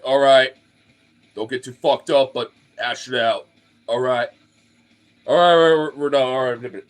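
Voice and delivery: refs yelling at players to break up a fight, loud calls; loud ref calls, half bark, half joke; ref shouting. Retold or imitated. Ref breaking up a fight, mock shouting. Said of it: "the refs are over here like".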